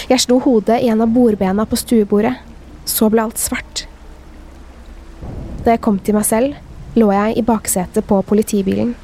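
measured read-aloud of a dark tale; first-person horror story narration. A narrator's reading. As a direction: read the scary story evenly, with pauses. Reads a scary story aloud.

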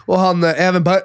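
ordinary talk

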